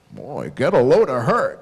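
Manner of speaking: loud dad who cannot whisper; stuck on ten. Retold or imitated. Dad commenting on a woman in the mall, loud. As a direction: blurt it loudly, imitating an oblivious dad. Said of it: "they cannot whisper. They get stuck on ten".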